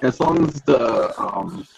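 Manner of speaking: glitchy robotic connection voice; choppy robot voice over a bad line. Real, not acted. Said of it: "You were sounding like a robot".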